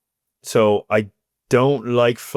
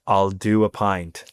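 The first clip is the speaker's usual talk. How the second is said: slow, carefully flattened Irish accent; slow, enunciated; 2 semitones lower, slower than usual. Shown as a demonstration. Newcomer trying to be understood at work, slow and enunciated. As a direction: space it out for a listener who can't follow you. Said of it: "I would slow down".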